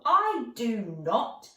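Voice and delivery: a friendly troll bragging about his stew. Acted. Troll voiced, proud cook.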